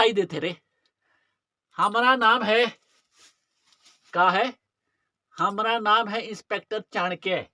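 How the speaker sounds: theatrical Bhojpuri-flavoured policeman, drawing out phrases; taunting rustic inspector. Acted. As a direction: toy with the crook as you reveal yourself. Acted disguised inspector taunting a crook. (देहाती लहजे में ताना मारता नाटकीय inspector)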